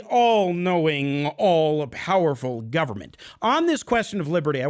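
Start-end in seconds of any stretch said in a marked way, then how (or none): 0.0-3.2 drawn-out, mock-reverent emphasis; sarcastic awe. Host mocking big government to radio listeners, sarcastic. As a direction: stretch the grand words with sarcasm.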